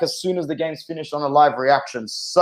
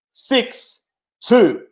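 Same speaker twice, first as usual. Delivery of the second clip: excited; 7 semitones higher than usual. Real, not acted. Repeats the scoreline.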